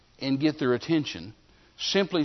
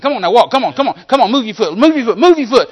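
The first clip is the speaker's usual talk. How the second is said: high, loud insistent yell; preacher yelling at a paralyzed man to walk; 7 semitones higher, 12 dB louder than usual. Retold or imitated. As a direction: drive him to move with a yell that keeps climbing. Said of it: "I'm just yelling at him like this".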